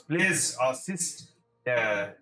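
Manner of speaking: measured in-character request, slightly halting; a hint of a character voice; lightly voiced courtly official. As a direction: lightly play a polite elder giving orders. Game master voices a character speaking.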